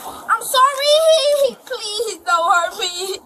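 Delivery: sobbing desperate plea; crying. Real, not acted. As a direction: beg while sobbing. Frightened child crying.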